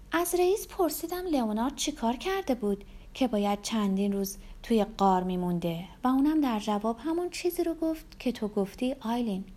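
confiding woman, pitch often lifted; lightly voiced Rebecca. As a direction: share the gossip with a friend. Rebecca's dialogue in the story.

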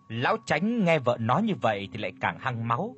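usual speaking voice

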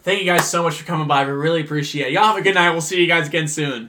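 lightly exaggerated host's farewell; see them out with a touch too much courtesy; mock customer-service politeness. Repeats over-polite send-off to rude customers.

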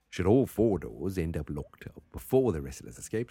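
amateur Australian reading; Australian accent. Shown as a demonstration. Host resumes reading rules, attempted Australian accent. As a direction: push on in a faked Australian accent. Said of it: "try to do Australian".

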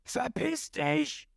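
high, slow strained yell, held back in volume; angry cry. A narrator's reading. Krieg firing spears at Ruffy, strained high cry. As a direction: spit out a strained, drawn-out cry. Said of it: "schießt wieder ... und schreit".

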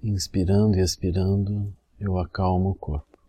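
measured meditation phrase with long pauses; spoken meditation cue, evenly paced; guided meditation demo. Shown as a demonstration. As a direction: lead the breathing calmly, leaving long silences. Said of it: "assim, a gente diz".

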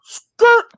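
drawn-out loud screech of a door skidding; imitated door noise. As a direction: make the door's skidding noise, stretched out. Imitates door flying into apartment.

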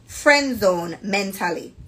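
slow, careful Jamaican read-aloud; deliberate Jamaican-accented storytelling; proper Jamaican accent. Acted. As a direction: read it measured, in a polite Jamaican lilt. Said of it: "I'm gonna talk like this".

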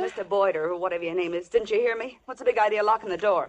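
indignant demand. Acted. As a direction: demand an answer from your captor. Trapped, demands the door be opened.

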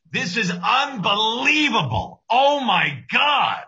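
put-on high, loud old man answering the phone; grandfather impression. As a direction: greet him like a grandpa on the phone. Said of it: "That's how he answers the phone".

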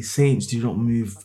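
reading her lines. Acted. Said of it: "I'm not reading her lines 'cause this is sounding very cringy".

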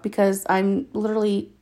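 talking with a runny nose; stuffed-up, runny-nose voice. Real, not acted. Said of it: "nose is running like crazy".

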